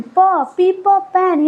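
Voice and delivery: प split off from पेन; sounding out प. Shown as a demonstration. Teacher sounding out प for the class, clearly. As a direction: break पेन into प and then the word. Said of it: "यहाँ प की sound आ रही है".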